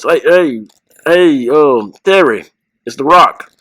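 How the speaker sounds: lightly imitated wrestler voice, a bit punched; The Rock. Cousin prank calling Terry Funk, mock Rock voice. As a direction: put on a hint of a wrestler's swagger. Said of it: "my cousin got the Rock voice".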